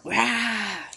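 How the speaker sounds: growly exclamation written in big letters; roar from a comic. Shown as a demonstration. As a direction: let out a big frightening roar. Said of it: "Olha como a Pro falou, é alto, é assustador".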